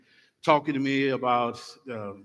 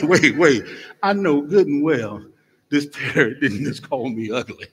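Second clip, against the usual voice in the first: offended lady; 6 dB louder than usual. Acted. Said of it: "The lady was like".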